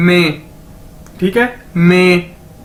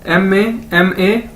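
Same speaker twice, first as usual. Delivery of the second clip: slow spelling; slower than usual. Shown as a demonstration. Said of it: "मामा".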